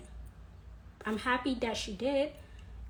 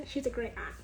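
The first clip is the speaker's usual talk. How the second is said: laughing; 5 dB quieter, faster than usual. Real, not acted. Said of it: "She's a great aunt (said twice)".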